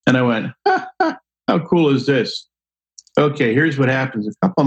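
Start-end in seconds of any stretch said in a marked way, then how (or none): 0.7-2.5 gleeful laugh. Retold or imitated. Gleeful at his big tips.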